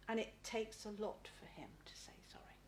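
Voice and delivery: hushed, moved delivery; softly, touched by real feeling; getting emotional. Real, not acted. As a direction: let emotion thin the voice, trailing into breath. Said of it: "I'm getting emotional".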